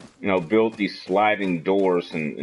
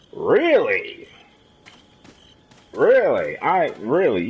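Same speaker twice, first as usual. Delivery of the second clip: surprised; 4 semitones higher, slower than usual. Real, not acted. Reacting to chat news.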